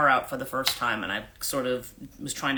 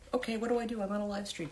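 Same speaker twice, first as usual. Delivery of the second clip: flustered guest; 8 semitones higher, 7 dB quieter, faster than usual. Retold or imitated. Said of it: "they're just kinda like".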